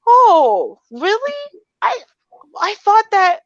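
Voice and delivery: high, sweet, helpless voice; sweet confused. Shown as a demonstration. On the phone to customer service, sweet helpless high voice. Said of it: "I put that same tone of voice".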